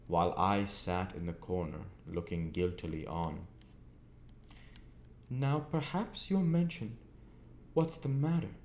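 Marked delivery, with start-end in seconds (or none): 5.3-8.5 out of breath. A narrator's reading. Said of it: "said my sister, out of breath".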